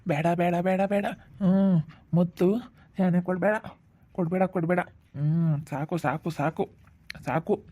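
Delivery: sleep mumbling. Acted. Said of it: "ಹಿಂಗ್ ಅಂಬ್ಲಿಸ್ಕೊಂತಾ ಇದ್ದಾನೆ".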